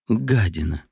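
ordinary delivery

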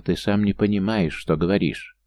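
plain reading voice

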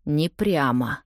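ordinary delivery

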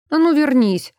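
loud, high angry call; shout. A narrator's reading. Brun shouting after Elsa running off, loud and high. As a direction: yell at her to come back. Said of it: "крикнул он".

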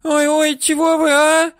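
high, loud panicky yelps; grabbed woman's high loud panic; frightened woman. Acted. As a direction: yelp high and loud like a scared old woman.

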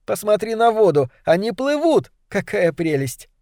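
high, joyful, slowing at the end; bubbling with delight. A narrator's reading. Girl delighted by swimming beavers.

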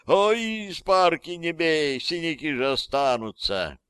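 very high, whiny mock plea; high-pitched playful fright, settling down; mock pleading. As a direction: squeal as if fending off a blow. Boy mock-pleading not to be hit.

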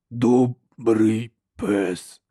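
slow rasping monster voice; harsh cracked giant voice. A narrator's reading. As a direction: drag out each word like a simple-minded brute. Giant repeats, same voice.

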